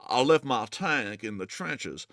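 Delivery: slow Southern take on I left my tank in the trenches; southern accent. Shown as a demonstration. Host reading a donor's line in a slow Southern accent. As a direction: drawl it out Southern-style. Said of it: "I say this in a southern voice".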